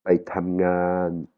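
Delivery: "Paitamngan" drawn out slowly, "tam" dropping; falling tone on TAM. Shown as a demonstration. Teacher repeats the word with the green tam, falling tone. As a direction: let "tam" fall in a slow "Paitamngan". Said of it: "il tombe".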